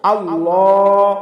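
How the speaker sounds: আল্লাহ with the লাম held for one alif, slow; one alif stretch. Shown as a demonstration. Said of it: "লামতে এক আলিফ টান হবে". (আল্লাহ-তে লাম এক আলিফ টেনে)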